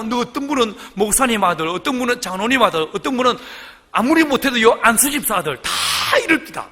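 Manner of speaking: ordinary talk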